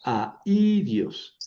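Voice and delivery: "airios" with A and stressed I as two syllables; separated syllables. Shown as a demonstration. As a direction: split "airios" into a, í, dios. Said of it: "en sílabas separadas".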